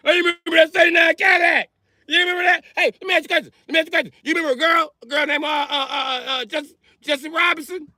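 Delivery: put-on old man chatter.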